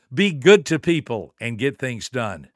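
measured maxim with "good" hit hard; deliberate emphasis. Shown as a demonstration. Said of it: "Did you notice how I did that?".

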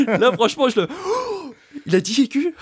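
high, stunned disbelief; mock shocked. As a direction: gasp out the question in mock horror. Mock outrage at a music word.

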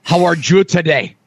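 a light, hammed-up Spanish accent; mock Spanish accent. Guest jokingly greeting the host in a fake Spanish accent. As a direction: try a Spanish accent and mostly miss. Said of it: "I should have a Spanish accent".

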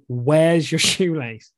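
slow, laughing through the question; amused mock questioning. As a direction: partner quoted with a laugh. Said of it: "she's saying".

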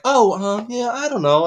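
high-pitched mock-casual reply; sudden casual switch. Husband answering wife mid-game, imitated as suddenly casual. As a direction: act as if the rage never happened. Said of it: "it completely separates the two".

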